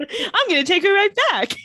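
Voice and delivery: determined vow. Retold or imitated. Klaus vows to rescue Caroline.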